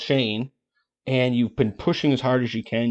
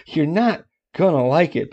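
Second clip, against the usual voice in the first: said through a laugh, higher; 4 semitones higher than usual. Acted. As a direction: chuckle while you warn them. Repeats warning through a laugh.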